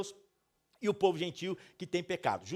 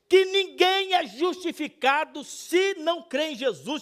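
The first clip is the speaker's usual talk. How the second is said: raised, loud voice building in intensity; full-force preaching; 7 semitones higher, 8 dB louder than usual. Acted. Preacher declaring what the gospel shows, impassioned proclamation. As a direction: proclaim it to the whole congregation. Climax of the sermon.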